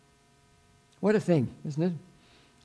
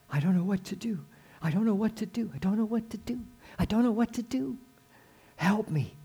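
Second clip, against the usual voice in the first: helpless pleading; 5 semitones higher than usual. Acted. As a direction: beg God, at a loss. Acting out a desperate prayer.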